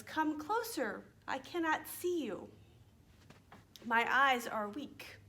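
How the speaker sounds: a hint of a feeble grandmother calling someone closer; wolf posing as grandmother. Wolf voiced as grandmother in story.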